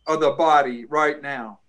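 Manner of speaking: commanding prayer voice; deliverance prayer. Acted. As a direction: rebuke spirits in prayer, firmly.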